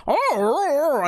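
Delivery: high, loud creature oohs; eager, gathering monsters; excited fish folk. Acted.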